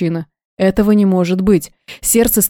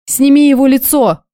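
raised, higher and louder, venom in every word; angry demand, pitched up high; furious hiss; 6 semitones higher, 3 dB louder than usual. A narrator's reading. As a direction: spit it at the impostor. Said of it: "зашипела я".

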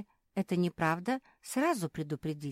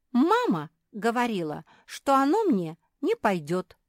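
higher, loud sulky puppy voice; pouting; 7 semitones higher, 8 dB louder than usual. A narrator's reading. Retti sulking about mother's refusal, pouting. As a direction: pout while you tell it. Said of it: "надулась Ретти".

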